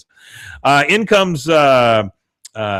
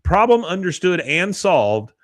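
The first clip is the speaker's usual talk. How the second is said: slow mock confidence; 7 semitones higher, slower than usual. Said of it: "She says".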